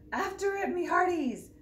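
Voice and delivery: high loud order; pirate command. Acted. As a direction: command the crew. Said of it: "Braidbeard commanded".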